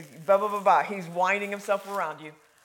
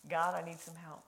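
humble plea; 3 semitones lower, 6 dB quieter than usual. Acted. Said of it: "It was a humility".

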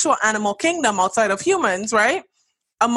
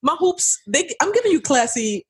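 high, playful sassy voice; mock ghetto persona; 6 semitones higher than usual. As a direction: ham up the ghetto aesthetic.

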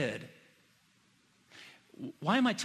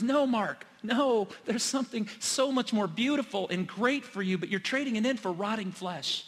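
pleading gently; 5 semitones higher than usual. Retold or imitated. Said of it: "The Spirit goes".

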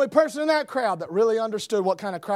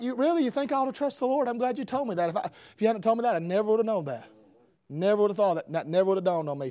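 mock gratitude; faster than usual. Mock reply to glib comforters.

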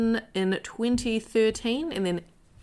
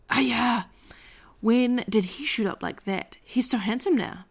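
exclaiming; 3 semitones higher than usual. Acted. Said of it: "Missus Lim exclaimed".

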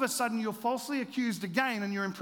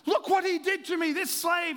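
higher, louder mock accusing cry; hammed-up screaming accusation; retold scream; 8 semitones higher, 5 dB louder than usual. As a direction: accuse him, pointing with a yell.

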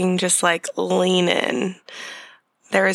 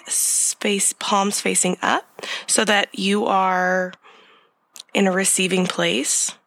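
guided meditation. Acted. Leads a breathing meditation.

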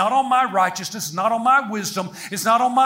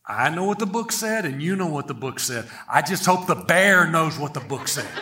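lower, understated punchline delivery; deadpan other hunter; 4 semitones lower than usual. Acted. Hunter answering his buddy about the book, understated deadpan. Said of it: "The other guy's like".

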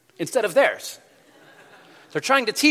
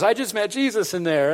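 higher voice, lightly imitating someone overcome; a touch of acted tears, pitched up; mock tearful; 5 semitones higher than usual. Crying wife tells her waiting husband about the shop, imitated tearfully. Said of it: "and she's, like, crying".

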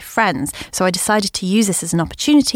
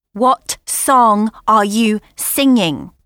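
put-on teen frustration; 3 semitones higher, 3 dB louder, much slower than usual. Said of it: "some teen frustration".

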